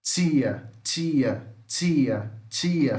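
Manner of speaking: Tia said "tchia", repeated as separate model words; teacher's spaced repetitions of Tia with affricate T; palatal affricate demo. Shown as a demonstration. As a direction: drill Tia with a voiceless tch at the start. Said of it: "o português tem africada alvéolo".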